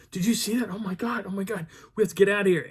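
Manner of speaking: high, hurried mock alarm; retold panic. Second group fleeing past the narrator, high-pitched mock panic. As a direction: act out a frightened hiker rushing off.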